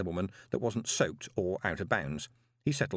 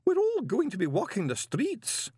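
high-pitched lament of doom; despairing wail; 12 semitones higher than usual. A narrator's reading. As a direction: wail as if all is lost. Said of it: "determined to drain the bitter cup of despair".

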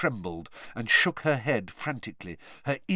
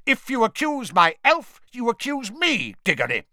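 loud, high furious shout; 13 semitones higher, 6 dB louder than usual. A narrator's reading. Mister Crouch defending his elf, shouting. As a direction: shout him down. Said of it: "shouted Mister Crouch".

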